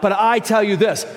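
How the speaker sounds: "But I tell you this" called out loud with a heavy "I"; preacher booming Jesus' words; emphatic quote. Shown as a demonstration. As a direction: proclaim "But I tell you this", leaning hard on "I". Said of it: "He says this a lot".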